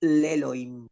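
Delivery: slow, drawn out Hebrew verse; reciting the Hebrew verse to the student, slowly; slow Hebrew recitation. Shown as a demonstration. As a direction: read the Hebrew phrase slowly, word by word. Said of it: "Eso se dice".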